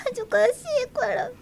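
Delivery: 照れた小声. Acted. 照れる舞子.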